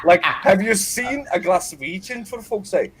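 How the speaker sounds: can barely get the words out for laughing; laughing at his own joke as he tells it. Real, not acted. Laughing while mocking Glasgow men.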